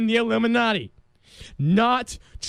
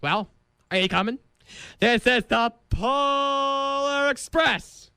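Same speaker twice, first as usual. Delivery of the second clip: conductor impression; 3 semitones higher than usual. Host imagines himself as the Polar Express conductor calling out. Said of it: "walking around campus going".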